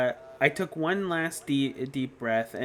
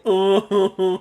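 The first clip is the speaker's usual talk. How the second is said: a lightly voiced haughty rich boy, higher and louder; pompous Byakuya; 6 semitones higher, 11 dB louder than usual. Shown as a demonstration. Demo of the pompous voice they dropped, haughty "Oh". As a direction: scoff like a snob who looks down on everyone. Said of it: "super pompous by making him go".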